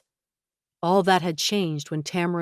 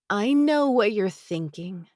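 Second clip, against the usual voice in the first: tight voice; 4 semitones higher, slower than usual. A narrator's reading. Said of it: "her voice tight".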